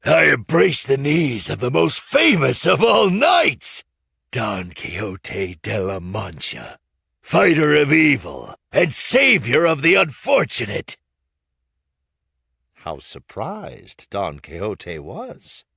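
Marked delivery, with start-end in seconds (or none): 0.0-11.0 loud, fawning proclamation; grand loud praise. A narrator's reading. Puppeteer kneeling before Don Quixote, loud fawning praise. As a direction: declaim it to the knight, kneeling. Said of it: "Hugging the knight's knees, he said".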